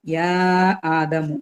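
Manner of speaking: യാ ആദമു with a drawn-out first vowel; long madd. Shown as a demonstration. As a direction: hold the vowel of യാ for four counts before ആദമു. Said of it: "four count നീട്ടിയിട്ട് pronounce".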